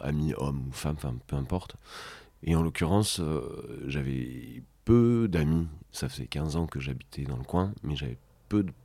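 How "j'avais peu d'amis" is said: peu drawn out slowly and high; slow heavy weight on peu, pitched up; stress on peu. Real, not acted. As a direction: lean hard on peu, dragging it out. Stressing how few friends he had.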